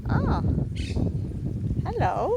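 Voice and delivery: high, loud, thrilled hello to the birds; delighted greeting. Real, not acted.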